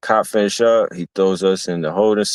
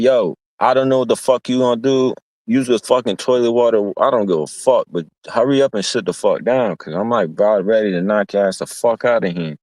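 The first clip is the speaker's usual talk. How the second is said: annoyed yell; 3 semitones higher, faster than usual. Retold or imitated. Annoyed teller snaps at cellmate.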